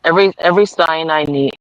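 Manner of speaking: measured read-aloud with long pauses; affirmation card reading. Acted. Reader giving Debbie her awareness card, measured affirmation reading. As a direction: read it out deliberately, phrase by phrase.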